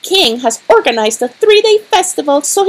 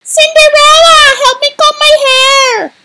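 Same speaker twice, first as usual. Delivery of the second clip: bossy call; 8 semitones higher than usual. Acted. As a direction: order her around. Stepsister orders Cinderella.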